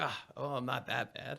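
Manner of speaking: soft, meek little voice; a rejected contestant, quietly sulking; mock deflated contestant. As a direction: sulk it quietly.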